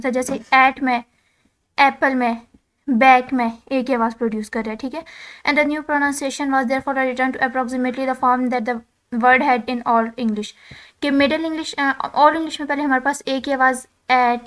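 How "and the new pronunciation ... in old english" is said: reading English text aloud, slow and deliberate; slow textbook reading. Acted. Teacher reading the textbook to students, slow dictation. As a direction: dictate each word slowly to the class.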